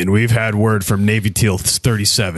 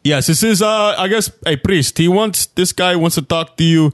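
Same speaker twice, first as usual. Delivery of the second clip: shopkeeper voice; 6 semitones higher than usual. Acted. Shopkeeper introduces priest.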